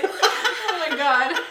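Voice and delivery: laughing it out; cracking up while speaking. Real, not acted. Laughing at cheap wine.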